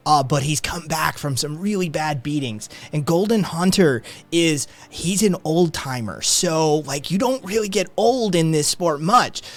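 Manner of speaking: eager fight nerd. Acted. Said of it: "He's like".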